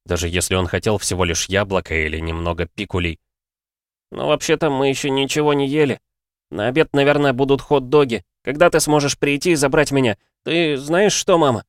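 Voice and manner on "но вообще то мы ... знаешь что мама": put-on high child's voice; a boy rambling to mum; chatty boy. Oliver chatting to his mother in a high boyish voice.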